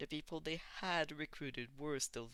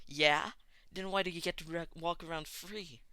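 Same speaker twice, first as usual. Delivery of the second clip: loud, higher scornful shout; angry retort; 5 semitones higher, 7 dB louder than usual. A narrator's reading. Bakugo yelling back at Deku, angry. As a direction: fire it back at him.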